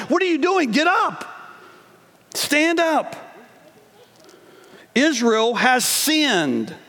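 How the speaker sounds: high, firm fatherly command; God as a stern father rousing Joshua; stern voice of the Lord. Acted. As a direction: snap him out of his excuses. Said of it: "kind of this stern tone from the Lord".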